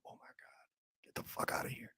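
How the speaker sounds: whisper. Real, not acted. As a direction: breathe it out in amazement. Blown away by vampire superheroes.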